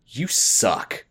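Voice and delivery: flat, dismissive jab; curt mock insult; glaring put-down. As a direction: sneer it at a passing girl. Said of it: "Kathy just glares at her and says".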